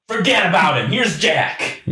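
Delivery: high-pitched mock hype for the replacement; retold brushing-off. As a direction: imitate them pitching the newcomer, voice jumping up. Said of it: "And then they're like".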